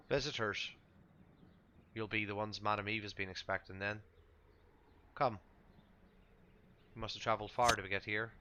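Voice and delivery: lightly voiced camp greeter, measured and welcoming; a hint of a Vistani traveler. Game master as Vistani greeting the expected visitors, lightly in character.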